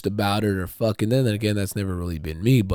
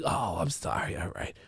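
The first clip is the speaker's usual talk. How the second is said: soft, high, half-whispered sorry; sheepish apology; 10 semitones higher, 6 dB quieter than usual. Retold or imitated. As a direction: back down meekly. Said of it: "I'm like".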